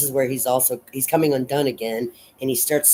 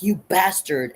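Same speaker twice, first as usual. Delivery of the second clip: mild snap back; 6 semitones higher than usual. Retold or imitated. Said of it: "so she snaps back".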